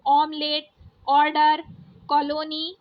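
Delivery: ऑमलेट, ऑर्डर, कॉलोनी with a rounded, open "aw"; open English o. Shown as a demonstration. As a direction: round the ऑ in each word, said one by one. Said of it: "थोड़ा सा ऑफ करके बोला जाता है".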